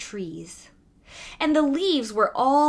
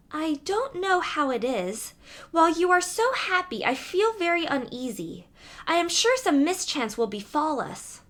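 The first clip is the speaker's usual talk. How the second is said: put-on higher, fretful young princess voice, lightly done; uneasy youngest princess; 5 semitones higher than usual. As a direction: let a timid princess worry aloud.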